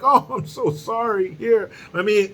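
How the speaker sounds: high-pitched mock-pitiful whimper; mock grovelling apology. Mocking a celebrity's public apology to Hollywood, in a high grovelling whine. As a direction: plead in an exaggerated, high, sorry voice.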